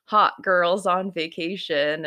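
lightly voiced mother waving away his heartbreak; dismissive mom. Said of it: "his mom says the worst possible thing ever".

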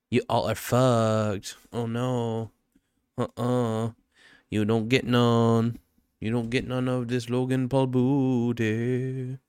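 drawn-out slow gloating; slow mocking taunt. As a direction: tease them, stretching every word slowly. Mocking fans as Logan Paul.

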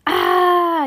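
high loud falling cry; falling yell. A narrator's reading. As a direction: yell as she drops. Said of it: "yelled Lucy".

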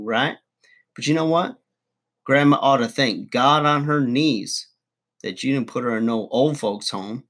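ordinary talk

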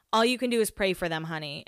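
put-on Southern accent. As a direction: imitate a very Southern coworker's advice. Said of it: "she's, like, very Southern".

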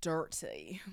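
hushed, drawn-in tease; teasing whisper. Pretend. Host teasing the spicy chapter to come, whispered. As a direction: drop to a whisper on the spicy word.

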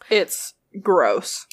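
voiceless whisper. Real, not acted. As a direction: hush it out in disgust. Disgusted aside.

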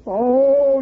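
high loud startled oh; startled gasp. Acted. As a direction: blurt it out in alarm. Startled by promise of more donuts.

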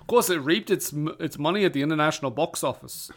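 slipping into an Australian accent; Australian accent creeping in. Real, not acted. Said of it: "Why am I turning it Australian?".

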